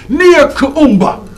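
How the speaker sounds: slow, relishing each syllable of Nia Kaumba; savoring the name. Shown as a demonstration. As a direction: draw out Nia Kaumba lovingly. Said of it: "Listen to that name".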